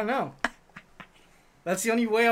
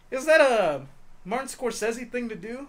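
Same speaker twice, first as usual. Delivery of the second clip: slow, lofty mock-serious musing; mock Vin Diesel; 5 semitones higher than usual. To the co-host, lightly mocking Vin Diesel's lofty tone. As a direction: play the pompous actor pondering. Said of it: "And he goes".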